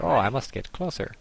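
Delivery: light mock German accent; a quick, hammed-up German accent. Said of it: "in a German accent like I just sort of did".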